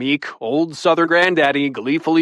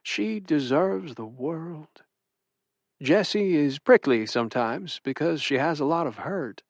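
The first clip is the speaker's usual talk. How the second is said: softly voiced loving grandfather; tender; 2 semitones higher, 4 dB quieter than usual. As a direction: speak of her gently, with love. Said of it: "I see nothing but tenderness now".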